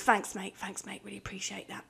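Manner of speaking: whispered, trailing thanks; deflated thanks. Retold or imitated. Boss quietly thanking employee after idea shot down, whispered. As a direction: let the air out of the boss.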